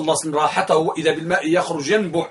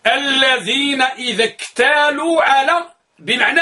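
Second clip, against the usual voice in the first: على raised high and drawn out on a rise; stress on على; 6 semitones higher, slower than usual. Shown as a demonstration. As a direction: lean hard on على, slower. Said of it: "إياك أن تقول على".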